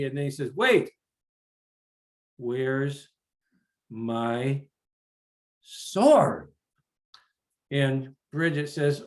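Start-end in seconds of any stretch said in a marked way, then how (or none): 0.5-6.5 sudden alarm. Acted. Father notices missing sword.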